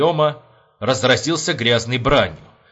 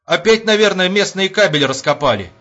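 high, raised excuse; piping up; 7 semitones higher, 4 dB louder than usual. A narrator's reading. Sentry offers an excuse to the angry major, piping up. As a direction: pipe up timidly from the corner. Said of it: "вякнул из угла караульный".

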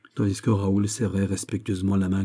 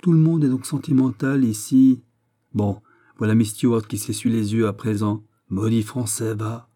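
lightly voiced exasperated king; irritated king; 2 semitones higher, 5 dB louder than usual. King fed up with everyone's sentimentality, mildly irritated. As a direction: grumble as a mildly vexed monarch.

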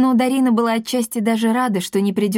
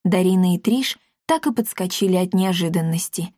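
ordinary delivery

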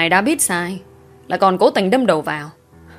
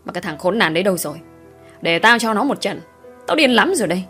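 rising rage. Acted. Father raging about the daughter's lover, building anger. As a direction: let the fury build to the end.

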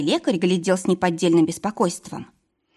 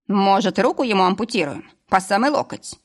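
mocking. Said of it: "раздался насмешливый голос".

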